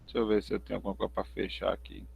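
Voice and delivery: choppy, glitchy call audio; half robot voice from a lagging phone; audio cutting out. Real, not acted. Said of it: "tá cortando seu áudio".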